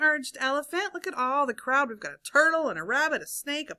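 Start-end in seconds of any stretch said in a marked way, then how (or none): 0.0-0.9 animated story reading with swooping emphasis and hushed letdowns; read-aloud storytelling. A narrator's reading. Teacher reads seesaw story to children, animated storytelling. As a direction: read it to young listeners with suspenseful pauses.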